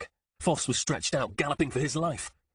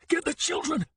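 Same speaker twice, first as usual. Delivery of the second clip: yell. Acted. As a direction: yell the order as he runs. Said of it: "he yelled".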